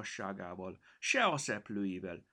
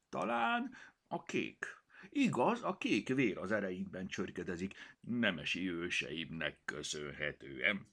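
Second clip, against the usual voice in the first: proud noble cat. Acted. Cat curtsies, boasts noble blood.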